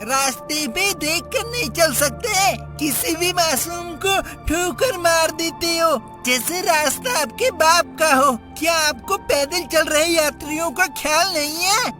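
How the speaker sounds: high, agitated telling-off; indignant scolding. Acted. Boy tells off the man who kicked his friend, indignant.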